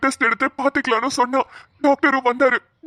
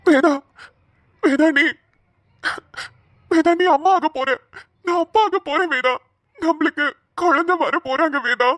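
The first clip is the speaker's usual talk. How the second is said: higher-pitched, overjoyed announcement; tearful joy; 4 semitones higher than usual. Acted. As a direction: break the happy news through tears. Husband tearfully announces the pregnancy.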